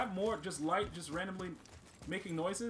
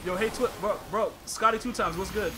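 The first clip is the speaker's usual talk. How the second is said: loud greeting; 8 dB louder than usual. Real, not acted. Calling out to a friend.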